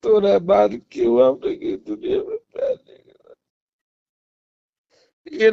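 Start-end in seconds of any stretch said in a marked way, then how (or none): 0.0-3.3 sobbing plea; crying. Acted. Man begging his ex to understand, sobbing. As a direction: ask it through tears. Tearful confession to ex-girlfriend.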